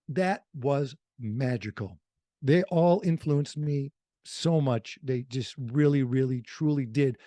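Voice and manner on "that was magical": slow sincere. Real, not acted. Repeating it to his host, slow and heartfelt. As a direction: let it sink in, meaning it. Fond memory of radio idols.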